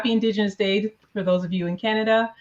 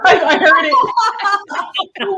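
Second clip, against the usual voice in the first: laughing; 11 semitones higher, 7 dB louder, much slower than usual. Real, not acted. Laughing at the duck impression.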